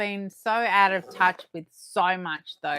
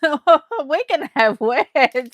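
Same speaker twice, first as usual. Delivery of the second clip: mock threat; 6 semitones higher, 12 dB louder, slower than usual. Real, not acted. Mock threat after reveal.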